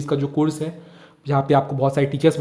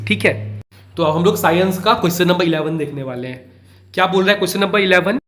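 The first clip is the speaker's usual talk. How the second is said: ordinary delivery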